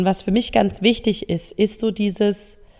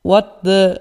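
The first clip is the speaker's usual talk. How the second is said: mock disbelief; 4 dB louder than usual. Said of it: "da sagt mein Gehirn".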